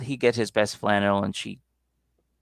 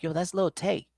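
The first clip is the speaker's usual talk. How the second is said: excited recognition; 9 semitones higher, 4 dB quieter than usual. Retold or imitated. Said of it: "I'm like".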